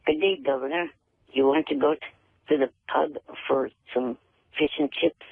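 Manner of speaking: halting, barely British accent; badly faked British greeting; attempted British accent. Shown as a demonstration. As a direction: try a British accent in your own voice. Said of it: "let me hear you do a British accent".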